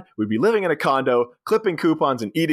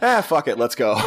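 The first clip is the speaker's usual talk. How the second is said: laughing dismissal. Retold or imitated. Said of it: "the way she delivers that".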